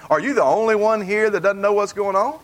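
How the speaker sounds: a light sarcastic jab with a rising end; mildly mocking disbelief; sarcastic question. Shown as a demonstration. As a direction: needle him, are you serious?. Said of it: "I want y'all to hear that sarcasm".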